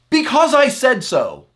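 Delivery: loud, high parental snap; exasperated parent. Retold or imitated. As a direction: shut the argument down hard. Parent's exasperated final word.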